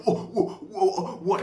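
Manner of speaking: high, flustered mock surprise; the caught-out MLM host, mock startled; mock shock. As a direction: play the stunned MLM guy, hammed up. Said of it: "He's gonna be like".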